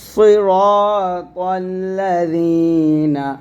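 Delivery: slow লাযিনা with tongue tip on the upper teeth for the z; touch the upper teeth on লাযিনা, vowel held long; tongue-tip dhal. Shown as a demonstration. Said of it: "জিহ্বাটা উপরের দাঁতে আগে লাগাবেন".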